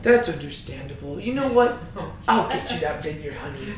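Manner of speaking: lightly soothing, low and soft; understated motherly comfort. Acted. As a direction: reassure him like a gentle mom. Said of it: "nice little motherly figure".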